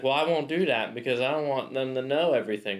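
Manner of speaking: lightly put-on Italian accent; a hint of an Italian caller's accent. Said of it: "Nice Italian accent, by the way".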